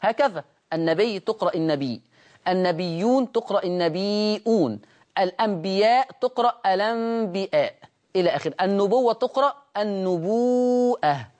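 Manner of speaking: النبي read as النبيء with a final hamza; Warsh hamza. Shown as a demonstration. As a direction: add a glottal stop at the end of النبي. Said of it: "بالياء أم يقرأه بالهمز".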